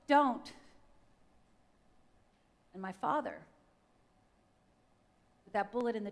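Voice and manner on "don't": loud, higher desperate cry; retold scream. Dying mother screams to stop the gunman, desperate. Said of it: "and screams out".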